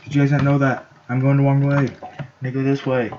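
high, loud, fast proclamation; mock outcry. Gamer telling his people Iron Man is no hero, mock outcry.

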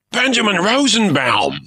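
pirate recognizes a famous poet, thrilled cry; cried out. Acted. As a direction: gasp the name like meeting a legend. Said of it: "the pirate cried".

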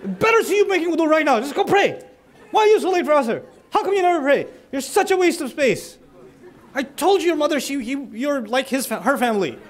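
terrible way to ask. Shown as a demonstration. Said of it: "Then there's".

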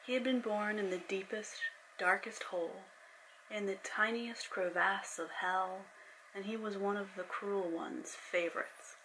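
steady storyteller reading; story narration. A narrator's reading. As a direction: read it like an audiobook. Reads her novel aloud.

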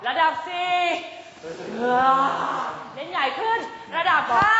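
spook your friends like a ghost. Shown as a demonstration. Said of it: "เราจะเล่นเป็นผีนะคะ เราจะหลอกเพื่อน". (เสียงผีหลอกสูงขึ้น)

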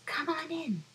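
high squeaky little fly; a tiny insect inviting guests. Acted.

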